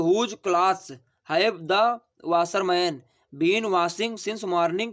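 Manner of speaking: very slow, word by word; dictating slowly. Shown as a demonstration. Teacher dictates the answer to students, very slowly. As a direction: spell it out for the class. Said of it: "teacher dictating the English answer".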